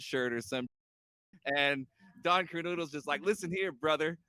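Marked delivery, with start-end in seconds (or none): 3.2-4.2 Hulk Hogan style promo. Retold or imitated. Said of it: "Everybody has Hulk Hogan's voice".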